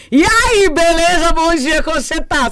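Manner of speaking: bom dia bem agudo e alto, empolgado; animado demais. Retold or imitated. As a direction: cumprimenta todo mundo cheio de energia. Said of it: "se chega alguém assim". (pessoa animada no elevador, aguda e alta)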